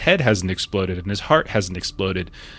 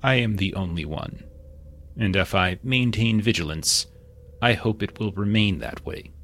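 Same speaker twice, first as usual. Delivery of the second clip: muffled voice. Acted. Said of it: "muffled voice".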